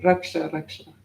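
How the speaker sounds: "Raksha" as ruk-sha, short uh vowels; short Sanskrit A. Shown as a demonstration. Teacher showing short A's in Sanskrit, "Raksha" as ruk-sha. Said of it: "short A's in Sanskrit sound like".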